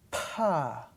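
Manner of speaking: normal talking voice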